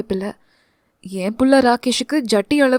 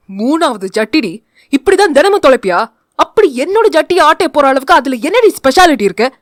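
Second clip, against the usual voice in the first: louder, fast snapping at his wife; fuming husband; 4 dB louder than usual. Acted. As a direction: hiss it out, fed up. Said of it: "என்று சீறினான்". (சீறும் கணவன்)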